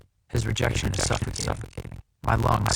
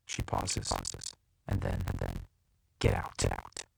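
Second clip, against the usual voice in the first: broken, halting; 14 semitones lower, 5 dB quieter, slower than usual. Acted.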